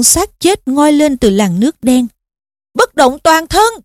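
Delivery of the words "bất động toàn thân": slow, higher-pitched incantation; shouted spell. A narrator's reading. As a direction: call the spell out, stretching each word. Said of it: "Harry hét lớn". (hô lớn thần chú)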